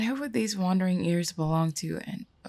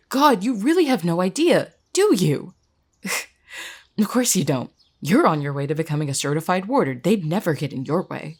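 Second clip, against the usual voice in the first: bitter scorn. Acted. Jess attacks friend's privileged position.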